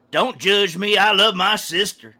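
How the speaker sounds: mock Southern talk show guest; Southern guy. Southern Springer guest defending himself, mock Southern protest. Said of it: "it was always the Southern guy".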